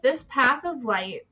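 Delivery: measured, projected reading aloud; emphatic quote reading. Acted. Host reading on about the path of light, emphatic quote reading. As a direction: read it out clearly, phrase by phrase.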